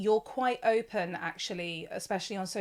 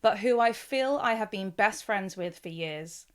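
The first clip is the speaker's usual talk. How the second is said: measured, polished podcast intro read; scripted introduction. Acted. Host introducing her podcast guest, scripted introduction.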